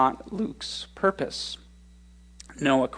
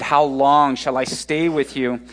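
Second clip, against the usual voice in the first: a touch of weary exasperation, a little louder; exasperated; 5 dB louder than usual. Retold or imitated. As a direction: sigh it out as a tired, exasperated Jesus. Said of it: "Jesus' exasperated".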